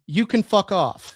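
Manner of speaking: put-on Canadian accent. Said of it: "In such a Canadian accent".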